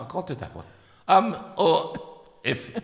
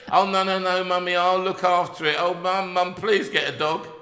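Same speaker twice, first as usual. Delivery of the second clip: put-on child begging; 5 semitones higher than usual. Child voiced begging mum.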